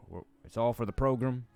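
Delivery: imitating a Southern coach, stretching "program"; coach imitation. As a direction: lean on "program" like a Southern high school coach. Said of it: "high school football coaches say".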